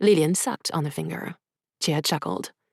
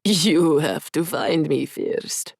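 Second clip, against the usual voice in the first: taunting laugh; much slower than usual. Acted. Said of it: "Jia imitated Adrian's annoying laugh".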